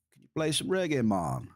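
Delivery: light mock Swedish accent, reggae sung out high. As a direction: imitate a chatter's Swedish accent, playful. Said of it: "with a Swedish accent".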